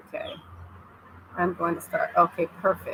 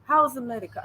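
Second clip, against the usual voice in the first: put-on higher Tanzanian-accented English; 4 semitones higher than usual. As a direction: ask it like a Tanzanian local. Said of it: "That's how they say it".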